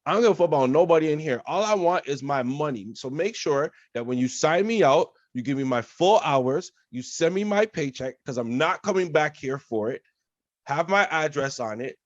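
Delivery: replaying a furious quit to the boss; retold angry rant. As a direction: lay into the manager in front of everyone. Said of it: "that's when I snapped".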